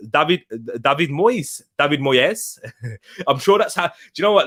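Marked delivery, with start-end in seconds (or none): 0.1-2.6 David Moyes as "Dah-vid Moy-es"; exotic pronunciation. Shown as a demonstration. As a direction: give David an "ah" and stretch Moyes towards two syllables. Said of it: "he sounds more exotic".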